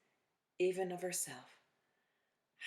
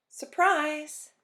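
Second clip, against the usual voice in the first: excited shout; 10 semitones higher, 9 dB louder than usual. A narrator's reading. Children's book read aloud, exclamation.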